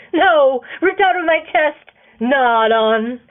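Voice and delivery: loud, mock-tragic wail; hammed-up heartbreak. Man teasing his friends, loud mock despair.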